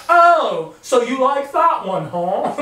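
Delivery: high, loud mock-condescending drawl; condescending English. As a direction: imitate English people looking down on you. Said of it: "their tone is just condescending".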